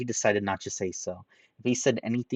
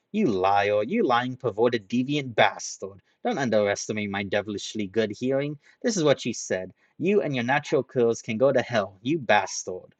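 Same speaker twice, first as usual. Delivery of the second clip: louder, heated name-calling; loud accusation; 3 semitones higher, 4 dB louder than usual. Acted. Ranta accusing Haruhiro, loud and heated. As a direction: hurl the insults at him.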